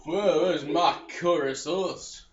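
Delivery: droning mock British blah-blah; a hint of a mock British accent. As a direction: parody the NPC's dialogue in a lazy British accent. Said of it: "in that accent".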